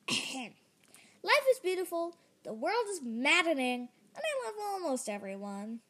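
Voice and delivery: stammered attempt. The speaker tries to repeat the saying, stammering. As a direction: struggle through the saying unconvinced. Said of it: "I stammered".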